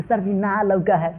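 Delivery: lightly mocking a student's drawn-out excuse. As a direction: mimic a pupil making a lame excuse. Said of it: "बहाना मत बना कि".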